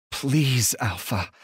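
pleading lift on please; begging. Acted. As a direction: beg him, the first word rising high. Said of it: "I beg".

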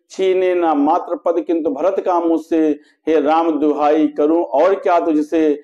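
measured, metrical verse reading with sustained line endings; poetry recitation. A narrator's reading. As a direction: recite the couplets in a steady, declaimed rhythm. Recites the queen's lament in verse. (लयबद्ध काव्य-पाठ)

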